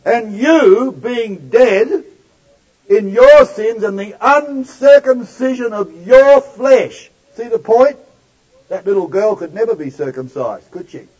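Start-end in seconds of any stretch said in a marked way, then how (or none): 0.0-7.1 slow and louder on "sins" and "your flesh"; emphatic reread. Shown as a demonstration. Preacher rereading the verse with the congregation, emphatic. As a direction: drive home "your". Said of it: "Now read again with me".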